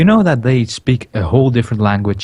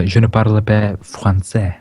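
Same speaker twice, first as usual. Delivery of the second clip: schoolbook French; 3 semitones lower than usual. Shown as a demonstration. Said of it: "I can only say".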